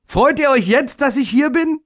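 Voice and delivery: high, hopeful rising question; happy little day. A narrator's reading. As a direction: ask brightly, full of hope. Little day asks happily.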